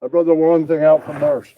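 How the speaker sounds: ordinary talk, nothing marked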